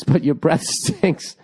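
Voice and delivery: slow, laughing through the word; a laugh breaks into the line; breaking bad news with a laugh. Real, not acted.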